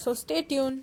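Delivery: slow, stretched stay tuned; drawn-out sign-off. Acted. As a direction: draw out the outro like a vlogger. Vlog sign-off to viewers. (हळू, ताणून म्हटलेला निरोप)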